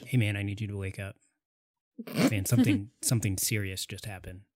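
quiet, hurried wake-up plea; hushed and urgent; urgent whisper. Acted. Urgently waking sleeping friend.

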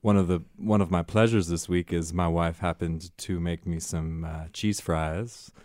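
light cowboy accent, some words drawn out; lightly voiced cowboy telling his week. Shown as a demonstration. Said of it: "Cowboy voice".

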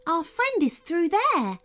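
the second fairy guiding Ananya. Acted. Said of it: "added the second".

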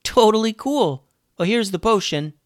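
high, enthusiastic character voice; impressed Dunbar. A narrator's reading. Dunbar handing the girls the potion, impressed. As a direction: gush in a high voice, then offer help.

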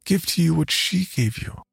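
a daughter's voice with something wrong beneath it; possessed girls' voice. Acted.

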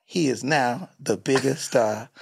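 lightly voiced solemn narrator; a hint of a grand documentary telling; impression of Coodie. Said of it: "'Cause he was like".

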